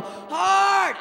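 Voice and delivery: very high, very loud yell; shouted call. Retold or imitated. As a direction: bark it at your sweeping crew. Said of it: "I'll yell".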